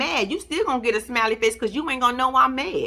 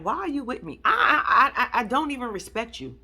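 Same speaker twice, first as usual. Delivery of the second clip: mock crying. Mock crying lover quote.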